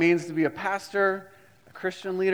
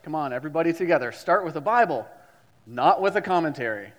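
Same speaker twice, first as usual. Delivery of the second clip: professor rallying class; 4 dB louder than usual. Retold or imitated. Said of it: "he'd say".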